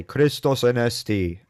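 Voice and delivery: Christos anesti, said slowly in Greek; Greek Easter greeting. Shown as a demonstration. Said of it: "the Orthodox will say".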